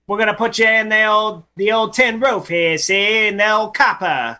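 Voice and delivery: lightly voiced old-time gangster; a hint of twenties mobster talk; old-timey gangster. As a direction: threaten like a hammy movie gangster. Old-timey gangster slang bit.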